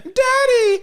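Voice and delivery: high squeaky mock "Daddy"; mock daddy call. Friend mocking Ginyu in Goku's body, high squeaky whine. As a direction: whine "Daddy" like a little kid. Mocking Goku calling his dad.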